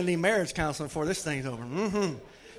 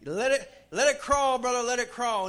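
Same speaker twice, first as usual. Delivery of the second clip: congregation call-back; 5 semitones higher, 4 dB louder than usual. Retold or imitated. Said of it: "they got".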